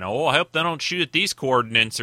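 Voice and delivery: a light, hammed-up Southern accent; bad Southern accent. Host voicing the worried Borg in a bad Southern accent. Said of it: "I do a really bad Southern accent".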